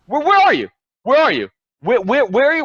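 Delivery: loud high demanding shout. Real, not acted. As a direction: yell the question at absent liberals. Furious repeated demand.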